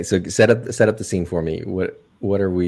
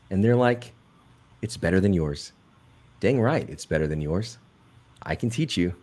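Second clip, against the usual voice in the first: commercial voiceover. Acted. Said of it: "doing a commercial for this".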